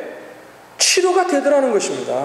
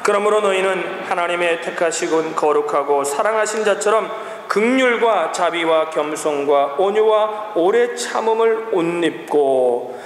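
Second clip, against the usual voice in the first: lower, slowing read-aloud voice; scripture reading; 6 semitones lower, slower than usual. Acted. Preacher reading the verse together with congregation, measured scripture reading. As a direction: lead a congregation through the verse, low and measured.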